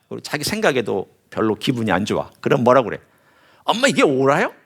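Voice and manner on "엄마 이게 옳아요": lightly voiced child demanding is this right; a hint of a defiant kid arguing with parents; sulky child talking back. A child talking back to mom and dad, mildly petulant. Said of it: "하면서 막 대드는".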